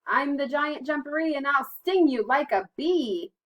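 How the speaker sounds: high, booming storybook threat; big, loud mock-menacing voice. A narrator's reading. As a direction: boom out a playful giant's boast, drawing out the ending. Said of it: "he heard a loud voice".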